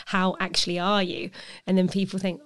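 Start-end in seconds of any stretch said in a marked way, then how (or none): 0.1-1.3 "actually are" leaned on, probing question; stress on ARE. Retold or imitated. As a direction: press for a real answer with weight on "are". Pressing past a routine okay answer.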